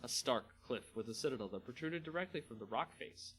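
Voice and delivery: steady storyteller reading a fantasy tale; story narration. A narrator's reading. Narrator reading a Magic story to viewers, measured storytelling. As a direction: read it like an audiobook narrator.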